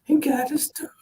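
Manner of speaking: breathy stage whisper, high and soft; conspiratorial hushed tease. Pretend. Hushed aside to co-host.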